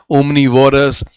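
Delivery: omnivorous and omniscient stretched very slowly, syllable by syllable; slow, careful teacher's enunciation. Shown as a demonstration. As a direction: spell the words out slowly for students. Teacher demonstrates the words.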